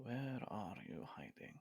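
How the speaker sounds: hushed, quiet, barely audible half-whisper. Voicing a character quietly half-whispering to himself in the woods: quiet half-whisper to himself. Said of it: "quietly whisper to himself".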